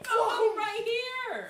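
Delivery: loud protest. Real, not acted. Complains being ignored on camera.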